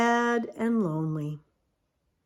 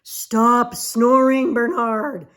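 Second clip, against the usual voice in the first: annoyed alligator; 6 dB louder, slower than usual. Acted. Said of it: "said the alligator".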